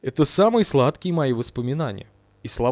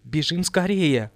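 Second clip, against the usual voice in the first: frightened cry; slower than usual. Acted. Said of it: "крикнула она".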